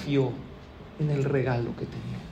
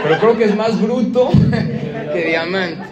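louder, breaking into a laugh; laughing punchline; 3 semitones higher, 8 dB louder than usual. Real, not acted. Preacher jokes about the wife's husband, laughing. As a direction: laugh through the joke.

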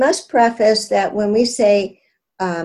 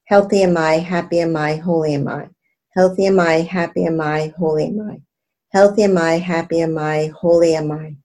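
mantra aloud; 3 semitones lower, faster than usual. Shown as a demonstration. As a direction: clear spoken mantra recitation. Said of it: "this time aloud".

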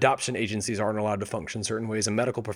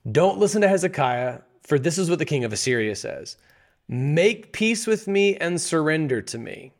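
mocking emissary; 4 semitones higher than usual. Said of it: "mocking impression".

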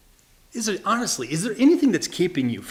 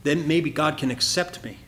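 doubtful objector; 4 semitones lower, 4 dB quieter than usual. Retold or imitated. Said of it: "some people would say".

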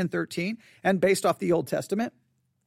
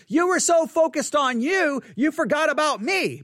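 mock complaint; 5 semitones higher than usual. Imagined complaint to the congregation.

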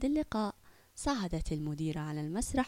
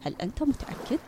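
surprised; 3 semitones higher, faster than usual. Acted. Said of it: "تعجبت وقالت".

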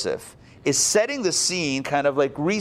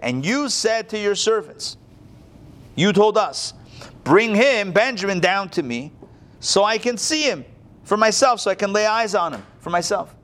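higher, insistent pleading; Judah's earnest plea; 6 semitones higher than usual. Acted. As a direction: press the viceroy with his own words. Voicing Judah's speech.

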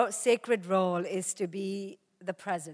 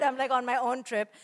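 ordinary delivery

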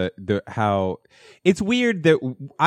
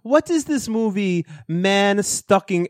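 high, slow mock Polish accent; botched Polish accent; 9 semitones higher, slower than usual. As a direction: draw it out in a badly imitated Polish accent. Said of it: "I was doing a better accent of him earlier".

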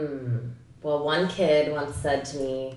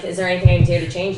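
Will Ferrell quote; 7 dB louder, faster than usual. Retold or imitated. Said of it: "And Will Ferrell's like".

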